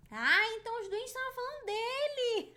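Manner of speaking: high, loud burst of realization; laughing exclamation. Real, not acted. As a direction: exclaim it loudly, breaking into laughter. Sudden realization, laughing right after.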